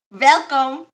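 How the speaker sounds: "Welcome" said as "Velcome"; "Welcome" with a hard V, mock accent. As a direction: swap the W in "Welcome" for a V. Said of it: "everything is a V".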